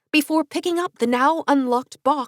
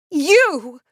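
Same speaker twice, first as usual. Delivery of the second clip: sudden sharp shout of recognition; 5 semitones higher, 7 dB louder than usual. A narrator's reading. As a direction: cry it out loud. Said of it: "Frankie shouted".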